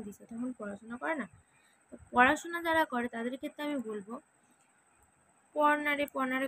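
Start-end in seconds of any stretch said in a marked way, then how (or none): 5.6-6.5 nagging. Retold or imitated. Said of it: "এরকম না ঘিনিয়ে".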